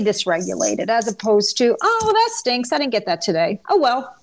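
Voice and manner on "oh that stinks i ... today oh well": high "oh" dropping into a shrug; casual letdown. Acted. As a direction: act out mild, passing disappointment. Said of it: "That would be a more casual response".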